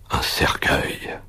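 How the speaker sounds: slow, breathless whisper of "un cercueil"; voiceless, dragged-out dread on "un cercueil"; fearful whisper. A narrator's reading. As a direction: drop to a hush on "cercueil" as if afraid to say it. Doctor confides his terrifying sight.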